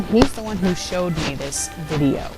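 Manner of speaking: usual speaking voice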